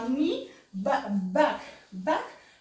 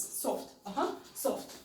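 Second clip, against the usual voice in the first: softly spoken; 3 semitones lower, 7 dB quieter than usual. Shown as a demonstration. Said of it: "start always with soft movements".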